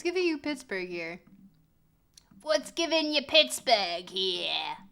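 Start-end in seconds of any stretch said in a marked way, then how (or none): 2.4-4.8 a lower, louder goofy repeat of the question; mock put-on voice. Streamer mocking the question to chat in a goofy voice.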